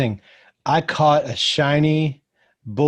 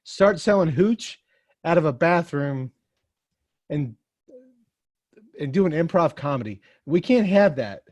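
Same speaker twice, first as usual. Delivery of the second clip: high preachy voice; 4 semitones higher than usual. Acted. Lecturing about Aiden.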